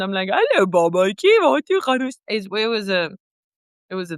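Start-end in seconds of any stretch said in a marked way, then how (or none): 0.3-2.2 a lightly changed pretend-mom voice; different mom voice. Playing mommy again, in a lightly shifted voice. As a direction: greet her as a new, differently voiced mom. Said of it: "the mom sounds completely different".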